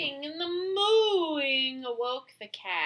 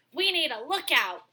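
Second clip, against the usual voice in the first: barked; 5 semitones higher, 5 dB louder, faster than usual. Acted. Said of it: "Dog barked".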